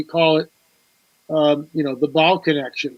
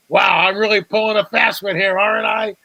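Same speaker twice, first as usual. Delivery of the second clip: sarcastic; 3 semitones higher than usual. Retold or imitated. Sarcastic forger boast.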